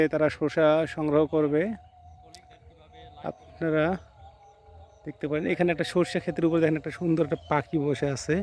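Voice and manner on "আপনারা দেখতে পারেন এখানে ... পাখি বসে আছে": dropped to a soft hushed voice so the bird stays. Real, not acted. Vlogger showing viewers a bird on the mustard field, hushed.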